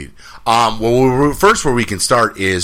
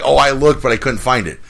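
mock excuse; 6 semitones higher, 3 dB louder than usual. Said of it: "You can't say, like".

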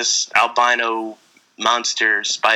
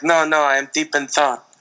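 lightly mocked French-accented woman; stilted put-on French accent; bad French accent; 2 semitones higher than usual. Sad woman answering the diner waiter, bad French accent. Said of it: "worst accent part of the movie".

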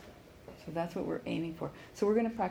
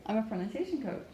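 "coach" lifted at the end; stress on COACH. Shown as a demonstration. Pronunciation coach modelling her introduction, "coach" emphasised. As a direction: build to a strong final "coach". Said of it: "So coach is the loudest".

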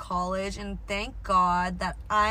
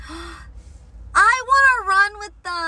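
gasp, then slow eager longing; breathless and wistful, drawn out; excited gasp; 10 semitones higher, 9 dB louder, much slower than usual. Real, not acted. Sees runners, gasps eagerly.

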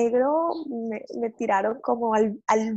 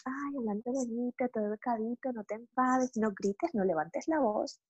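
mock prim upbringing; 4 dB quieter than usual. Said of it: "pues siempre como".

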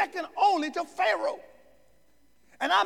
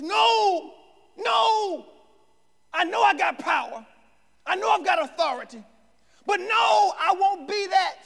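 emphatic no; 4 semitones higher than usual. Retold or imitated. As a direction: push back hard on the offer. Joseph declines power.

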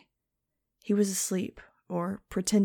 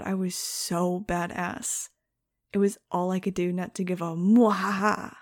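ordinary delivery, nothing marked

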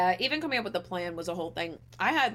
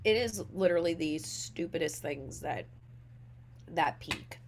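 chewing while talking. Real, not acted. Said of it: "I'm also eating breakfast at the same time".

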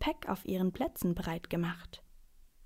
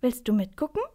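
put-on high, louder boyish question; eager invitation; 4 semitones higher, 5 dB louder than usual. A narrator's reading. Boy asking the man to watch along, eager.

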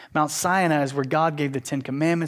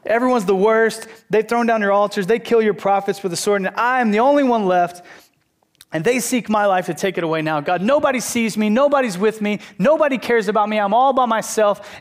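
higher and louder, self-pitying wail; whining complaining prophet; 6 semitones higher, 5 dB louder than usual. Acted. Elijah complaining to God, loud self-pitying whine. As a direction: complain like nobody cares.

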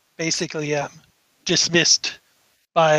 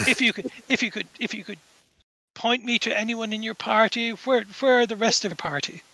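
a hint of a courteous gentleman, slightly raised pitch; lightly voiced Indian gentleman; 5 semitones higher, 3 dB quieter, faster than usual. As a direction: politely press for help, lightly in character. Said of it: "an Indian gentleman approaches you".

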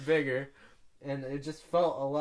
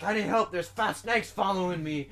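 calling for help; 5 semitones higher, 5 dB louder than usual. Retold or imitated. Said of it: "And I was like".

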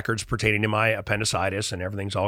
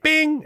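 mock machine bing; 4 dB louder than usual. ATM card sound.

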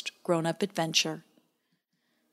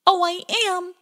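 tinge of desperation; 12 semitones higher, 6 dB louder than usual. A narrator's reading. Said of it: "with just a tinge of desperation".

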